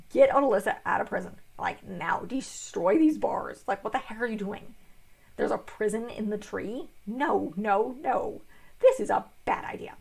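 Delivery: half-hearted scolding of the owls; retold yell. Corin chewing out the owl parliament, mild mock yell. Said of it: "and he yells at them".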